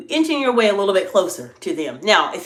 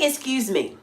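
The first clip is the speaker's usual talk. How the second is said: soft, courteous "Excuse me."; polite; 4 semitones higher, 4 dB quieter, slower than usual. Shown as a demonstration. Leader politely interrupting whisperers, soft and courteous. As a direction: politely cut in. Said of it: "say it in a very polite tone of voice".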